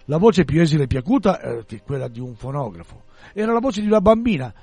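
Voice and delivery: measured read-aloud narration; storyteller setting out a strange scene; story narration. A narrator's reading. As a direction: read the novel aloud to listeners.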